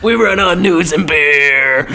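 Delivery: laughing through the words; high, loud, giggly. Real, not acted. Laughing at a crude joke.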